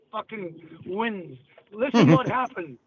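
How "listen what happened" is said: ordinary talk, nothing marked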